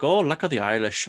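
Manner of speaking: hushed, breathy mock leprechaun; imitating the leprechaun in a hushed whisper; whispered leprechaun line. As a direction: breathe it like a sly little imp. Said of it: "he's like".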